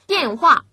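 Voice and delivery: 电 and 话 each drop from high; double falling tone. Shown as a demonstration. Teacher models tones for learners, 电话 both falling. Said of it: "두 번 다 떨어지기 때문에".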